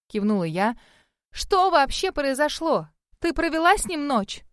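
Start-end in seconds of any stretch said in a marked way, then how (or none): 1.3-4.4 she insists on a straight answer; demanding. A narrator's reading. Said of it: "требовательно спросила она". (требовательно, медленно, голос выше)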